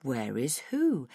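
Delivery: slow, low mock question; low, lazy taunt; taunting feigned innocence. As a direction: draw it out, toying with the listener. Kidnapper toying with the mother.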